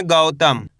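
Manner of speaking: गौतम as one joined word, falling; model pronunciation. Shown as a demonstration. Teacher shows learners how to read it, गौतम joined and falling. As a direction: join गौ and तम, letting the end drop. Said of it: "कैसे पढ़ेंगे?".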